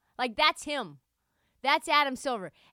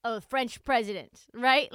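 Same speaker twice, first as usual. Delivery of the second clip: mock official; 5 dB louder than usual. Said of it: "that's how he wanted me to say it".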